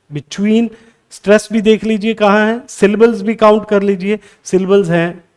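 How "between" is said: "between" as be-TWEEN; second-syllable stress. Shown as a demonstration. Teacher shows learners where stress falls, "between" stressed on its second syllable. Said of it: "second syllable पे आ रहा है".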